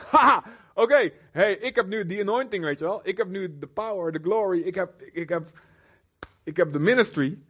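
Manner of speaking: laughing opener, then a smug, self-important voice; smug bragging. Acted. Overconfident Peter bragging about his anointing, smug. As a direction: show off your power and glory.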